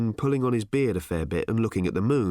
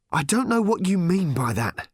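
raised, higher voice, mildly strained; panting and hurting; 8 semitones higher than usual. A narrator's reading. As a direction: protest while winded and hurting. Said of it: "panting and hurting".

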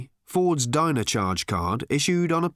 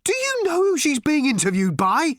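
high, loud question called across rooms; astonished shout; calling out; 4 dB louder than usual. A narrator's reading. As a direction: call it out to the other room. Arthur calling from next room.

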